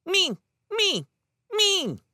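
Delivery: put-on very high, imperious toddler demand; booming toddler. A narrator's reading. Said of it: "imperious hand and boomed".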